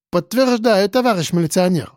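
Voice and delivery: a hint of a burr on "милиционер", r not trilled; says w for r. A narrator's reading. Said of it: "прокартавил интеллигент".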